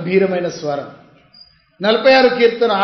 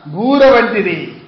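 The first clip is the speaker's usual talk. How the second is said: drawn out; much slower than usual. Shown as a demonstration. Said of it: "బూర వంటి స్వరం".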